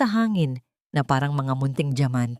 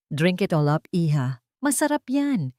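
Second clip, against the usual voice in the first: insistent sweetness. Acted. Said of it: "pilit nito".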